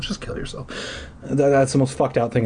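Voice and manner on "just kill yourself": whispered. Real, not acted. Trailing off rant.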